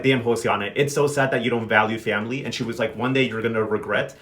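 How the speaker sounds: low, solemn imitation of a let-down aunt; disappointed reproach. Mary Peace tells Josiana she will regret it, disappointed reproach. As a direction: drop the pitch for a sober warning.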